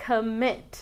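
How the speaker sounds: "commit" with the stress on the final syllable; stress on second syllable. Shown as a demonstration. Teacher models "commit" for Spanish-speaking learners, stressed on last syllable. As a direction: say "commit" leaning on the end, co-MIT. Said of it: "cómo se pronuncia la palabra commit".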